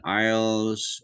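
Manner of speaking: "isles" drawn out slowly; slow, stretched "isles" to show the diphthong; diphthong demonstration. Shown as a demonstration. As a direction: stretch the vowel glide in "isles". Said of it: "we were introduced to diphthongs".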